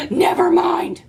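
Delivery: fake-sob it for comic effect; mock crying. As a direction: melodramatic pretend weeping. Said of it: "that was really dramatic".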